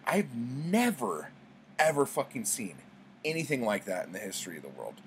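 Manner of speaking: amazed bartender; mock amazement. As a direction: gush to the dog owner. Amazed line to owner.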